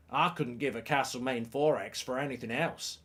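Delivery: attempted Australian accent, slightly off; bad Australian accent. Shown as a demonstration. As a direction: have a poor go at Australian. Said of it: "I meant to be from Australia".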